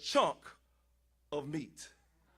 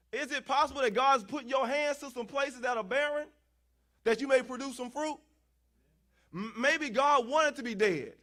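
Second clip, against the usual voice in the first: raised, insistent preacher's questioning; preaching; 7 semitones higher, 6 dB louder than usual. Real, not acted. Preacher pressing congregation on healing sick places, preaching.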